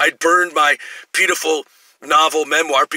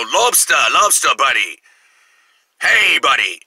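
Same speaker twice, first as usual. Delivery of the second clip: put-on Maine accent; slower than usual. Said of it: "they have this weird accent".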